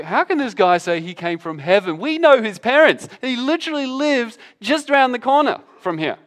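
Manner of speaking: lightly voiced scoffing neighbours; grumbling crowd. Crowd grumbling about Jesus's parents, mildly mocking. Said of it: "they start grumbling and say".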